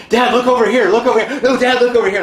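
put-on high, loud excited child calling Dad; high childish voice pointing at shiny things in the store; little boy. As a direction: play the kid tugging at his father. Little son voiced in story.

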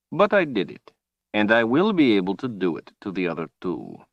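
a cold, gloating overlord; menacing villain. Acted. Villain Rahl speaks.

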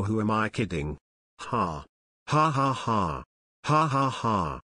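ordinary talk, nothing marked

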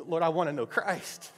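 retold heartfelt plea to God, pitch lifted; emotional prayer. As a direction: relive an earnest prayer, rising in the middle. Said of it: "I remember just getting emotional".

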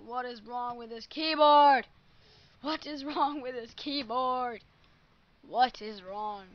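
loud, exasperated shouting at the keyboard; real fury at the broken keys; bellowing at a broken keyboard; angry yell. Real, not acted. Keyboard failing again.

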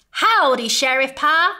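put-on Cowboy Baby greeting his toy bear, eager. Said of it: "Out jumped Cowboy Baby".

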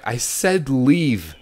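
slow, firm command; stern order. Acted. Nurse telling David to leave, firm. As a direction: order him out sharply.

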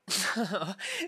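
short, loud laugh. Acted. Captor dismissing a guest's wish to leave, short laugh. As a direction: burst out with a brief laugh.

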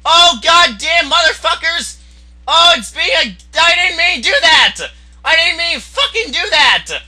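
high, agitated protest; pleading, high-pitched outburst; dismayed yelling. Real, not acted. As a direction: cry out in dismay at your own mistake. Upset at own misplay.

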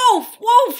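high, very loud alarm scream. A narrator's reading. Bored Arabella tricking the townsfolk, screaming. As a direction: cry wolf at the top of your voice. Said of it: "she screamed at the top of her voice".

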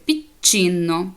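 «піччіно» slow, holding the double ch; slow teacher's model of «піччіно»; doubled ch. Shown as a demonstration. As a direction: break «піччіно» at the long ch. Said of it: "читається як".

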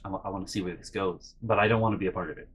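soft, low, hurried muttering; quick under-the-breath wavering; hushed reluctance. Retold or imitated. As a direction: mumble it to yourself, staying out of sight. Spectator not wanting to be noticed.

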